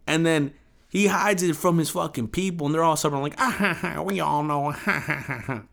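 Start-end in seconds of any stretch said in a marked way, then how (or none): 3.4-5.6 mock nervous laugh. Stubborn flat-earthers laugh it off.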